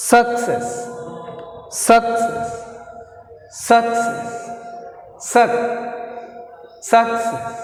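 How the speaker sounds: "success" as a spaced stress drill; stress on second syllable. Shown as a demonstration. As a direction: repeat "success" as a teacher showing stress on CESS. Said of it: "second syllable".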